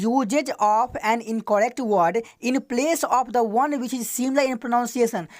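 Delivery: very slow, word by word English reading; slow dictation. Shown as a demonstration. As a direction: dictate each word so students can write it down. Teacher repeats the definition slowly. (बहुत धीमे, शब्द-शब्द बोलकर लिखवाना)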